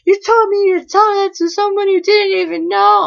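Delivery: high, loud mock scolding; pissed-off mom. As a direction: imitate an irate mother telling off her daughter. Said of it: "like, so pissed off".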